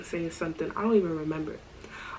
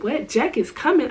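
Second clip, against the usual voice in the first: higher, louder startled outburst; retold loud shock; 5 semitones higher, 5 dB louder than usual. Narrator shocked that her friend's ex is coming, louder. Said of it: "I said that loud".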